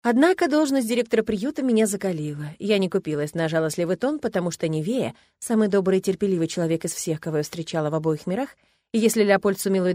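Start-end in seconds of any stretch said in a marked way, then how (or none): none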